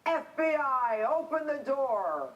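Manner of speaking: imitating a yelled police order; retold yell. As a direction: call it out like agents banging on a door.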